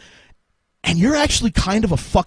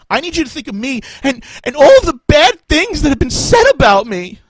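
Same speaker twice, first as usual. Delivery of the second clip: a hint of a self-pitying boss, rising higher and louder at the end; mock whiny boss; 6 semitones higher, 6 dB louder than usual. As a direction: play the needy boss, whining more and more.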